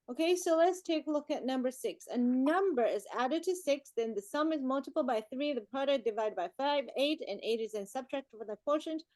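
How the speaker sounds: brisk read-aloud, sentences run together; read quickly. Real, not acted. Teacher reading a maths problem to the class, quickly. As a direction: run through the problem without pausing. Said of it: "you read that so fast".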